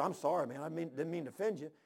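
low, soft, subdued apology; sheepish apology. Retold or imitated. Visitor apologizing to the old preacher, sheepish and low. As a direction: apologize small and quiet, voice dropped.

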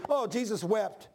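casual, unthinking recital; mock glib quoting; offhand quote. Shown as a demonstration. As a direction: toss it off as a familiar saying. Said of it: "you don't realize what, you're saying".

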